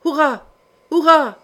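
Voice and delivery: cheering roar. A narrator's reading. Attackers acclaim the ram striking, a narrated roaring cheer. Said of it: "mugit la frénétique acclamation".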